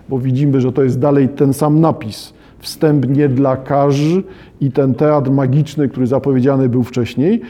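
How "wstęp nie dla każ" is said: each word drawn out slowly; slow sign quote. Shown as a demonstration. Lecturer re-quotes the sign for students, slowly. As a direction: read the sign slowly and deliberately.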